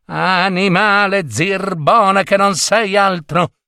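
high-pitched scolding wife; angry insult. A narrator's reading. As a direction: hurl the insult at a useless husband. Wife insults husband in acted quarrel. (insulto stizzito, tono acuto)

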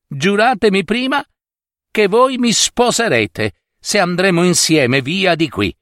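put-on storyteller's insistent young woman; ogre's daughter pleading. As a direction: press him urgently for a promise. Girl demands an oath of marriage.

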